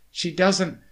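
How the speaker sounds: high, loud, winded huff. A narrator's reading. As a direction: huff it out, short of breath. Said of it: "he huffed".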